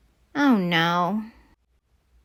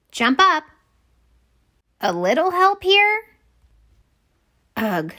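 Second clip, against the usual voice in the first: strained plea; 7 semitones higher than usual. Acted. Wilma strains with wombat at cauldron.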